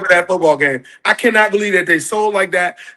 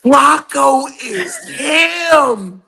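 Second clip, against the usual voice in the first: excited shout; 5 semitones higher, much slower than usual. Real, not acted. Caller bursts in excited.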